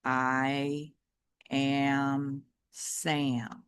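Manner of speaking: low, dragging robot voice winding down; a dying toy robot, lightly voiced; running-down robot dog. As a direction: let the robot voice sag as the battery dies. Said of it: "saying the words slower and slower".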